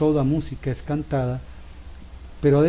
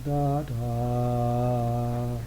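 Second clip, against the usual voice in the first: slow tempo; 3 dB quieter, much slower than usual. Shown as a demonstration. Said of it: "No es lo mismo que".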